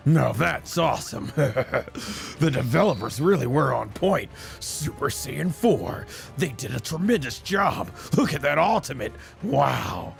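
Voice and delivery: lightly put-on cocky veteran fighter; in-character anime hero. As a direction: muse on your new form as the fighter himself. In-character verdict on his own form.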